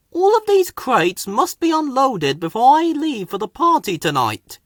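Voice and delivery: brisk orders from the boss; Fat Controller voice. A narrator's reading. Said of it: "he told Colin".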